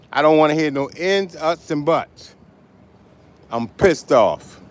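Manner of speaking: letting the audience hear how mad he is; angry rant. Real, not acted. Cab driver venting to his audience, heated and loud.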